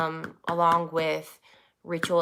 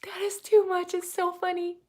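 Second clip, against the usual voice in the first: amused; 13 semitones higher than usual. Retold or imitated. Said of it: "I'm like".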